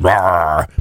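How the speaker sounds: low mock truck growl; imitated engine roar. Podcaster imitating the pickup starting, drawn-out engine roar.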